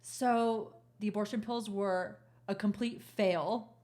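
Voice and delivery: slow, halting delivery of bad news; measured, careful announcement; imitating a nurse. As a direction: break it to them slowly, with pauses. Acts out nurse breaking bad news.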